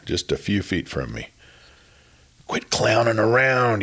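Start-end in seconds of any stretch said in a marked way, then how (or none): 2.5-3.8 understated annoyed hiss; mild hiss. A narrator's reading. Red scolds his fishing partner in the dark, mild hiss. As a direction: tell off a buddy under your breath, lightly. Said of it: "he hissed at me".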